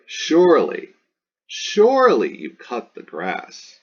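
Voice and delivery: mock parent fishing for a yes; leading parent. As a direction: play a parent who expects agreement. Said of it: "Parents do this one all the time".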